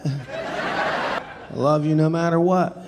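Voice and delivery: drawn out slowly through a laugh; slow giggly drunk repeat. Retold or imitated. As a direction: stretch it, half laughing. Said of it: "said it about eighty times".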